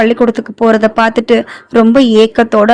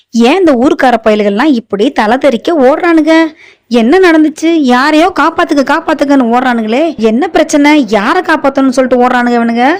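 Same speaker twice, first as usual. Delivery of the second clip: startled questioning; 4 semitones higher than usual. Acted. Mala asks what happened.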